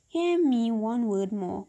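a lightly voiced genie begging; genie pleading. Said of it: "cried the genie".

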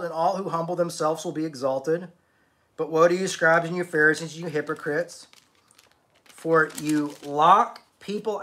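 rising, emphatic scripture reading; scripture preaching. Acted. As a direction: proclaim the woes to the Pharisees. Reads Jesus' woes from Matthew.

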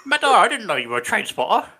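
teasing friend voice. Retold or imitated. Quoting messages from friends.

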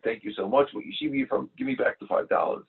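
high excited thanks; a high, excited rush of thanks; grateful excitement. Retold or imitated. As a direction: gush with relief and joy. Grateful son thanks collector.

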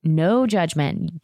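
"No judgment." stretched out very slowly, each word lingering; slow drawn-out no judgment. Shown as a demonstration. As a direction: draw it out with knowing emphasis. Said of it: "Get it, Caroline Forbes".

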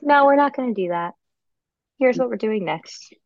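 put-on steady, calm redirection to a child; calm firm neutral. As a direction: stay neutral but firm. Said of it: "remain neutral".

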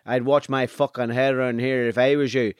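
tough-talking Monaghan accent; imitating Monaghan and Armagh speech. Shown as a demonstration. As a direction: warn someone off in a Monaghan accent. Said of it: "then Monaghan all of a sudden goes".

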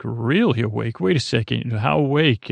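questioning echo with a swooping "Really"; retold double take, puzzled and probing; mock incredulous. Riker questioning Troy about her mother's awakening, mock incredulous.

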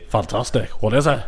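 lightly attempted Scottish accent; a Scottish impression gone astray; Andy Gray. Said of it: "That's Andy Gray".

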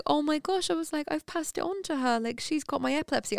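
a touch of fretful worry; retold wobble. New mother fretting to herself over her baby, mild retold panic. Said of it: "I had a proper little wobble".

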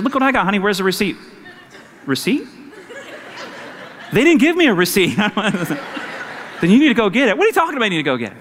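playful back-and-forth with laughter; laughing retelling. Retold or imitated. Pastor replaying the receipt spat with his wife, laughing.

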